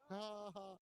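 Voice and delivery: high, drawn-out "ha, ha"; delighted laugh. Real, not acted. Delighted by mean looking bike.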